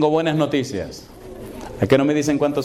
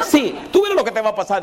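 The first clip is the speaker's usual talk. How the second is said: laughing taunt; 7 semitones higher, faster than usual. Retold or imitated.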